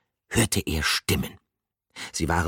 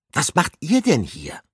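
calling out; 11 semitones higher, 5 dB louder than usual. A narrator's reading. Calling through window.

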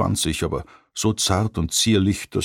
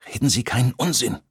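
sternly; 6 semitones higher than usual. A narrator's reading. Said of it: "sagte Shauna streng".

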